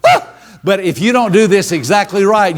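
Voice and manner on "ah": demo exclamation. Shown as a demonstration. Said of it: "exactly at the moment as you go".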